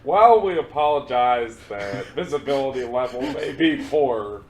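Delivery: laughing mock captain announcement; pilot announcement. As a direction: play it like a pilot on the intercom. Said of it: "this is your captain speaking".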